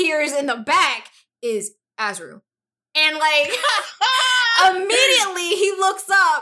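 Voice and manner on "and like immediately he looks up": laughing high and loud through the words; can't get it out for laughing; real laughter breaking the sentence; cracking up. Real, not acted. Cracks up mid-story.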